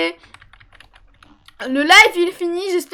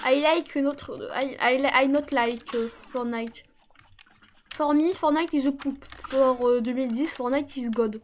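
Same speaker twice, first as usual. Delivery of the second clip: joking broken English; slower than usual. Pretend. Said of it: "je suis trop bien en anglais".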